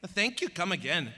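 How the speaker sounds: toned-back Indian accent; Apu. Shown as a demonstration. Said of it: "Yeah, he tones it back".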